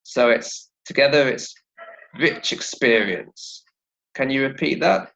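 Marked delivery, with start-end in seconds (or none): 2.2-3.6 "rich experience" slowly, ch linked into the vowel; "rich experience" low, slow and joined as one; linked words. Shown as a demonstration. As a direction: run "rich" straight into "experience". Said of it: "those two sounds together".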